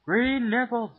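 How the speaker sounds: high, loud cry of shock; surprised shout. Real, not acted. Cook notices something green, yelping. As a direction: yelp it in shock.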